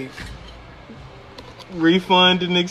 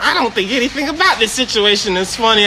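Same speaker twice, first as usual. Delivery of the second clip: higher, quick mimicry of annoyance; mock indignant caller; 4 semitones higher, faster than usual. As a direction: imitate a customer who is not amused. Repeats the offended caller's line.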